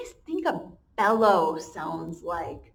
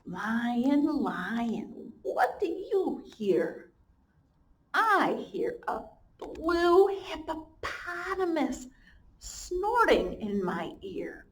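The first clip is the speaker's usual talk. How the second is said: sing-song slow storybook read; reading to children; 3 semitones higher, much slower than usual. Acted. Teacher reads the refrain aloud to her class, slow and sing-song. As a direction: chant the refrain for little ones.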